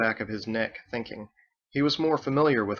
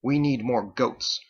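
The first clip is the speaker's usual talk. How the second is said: gritted teeth; slower than usual. Acted. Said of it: "Andolin gritted her teeth".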